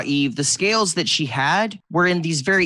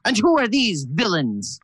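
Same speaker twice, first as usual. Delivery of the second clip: kobold jumps in front of the goddess, voice pitched well up; high, challenging kobold cry; protective kobold; 6 semitones higher than usual. Acted. Kobold knight guarding his goddess from strangers, high and wary. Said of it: "And he goes".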